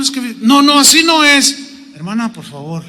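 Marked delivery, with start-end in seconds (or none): 0.4-1.7 raised-pitch imitated contradiction; interrupting wife. Wife contradicts her husband before the pastor, high insistent voice. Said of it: "la esposa". 1.9-2.8 low, soft reproof; patient plea. Retold or imitated. Pastor reins in the interrupting wife, soft low plea.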